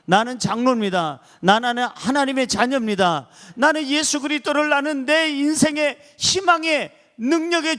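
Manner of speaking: building declaration. Shown as a demonstration. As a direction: swell into a full proclamation. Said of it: "지금부터 소리를 내시기 바랍니다".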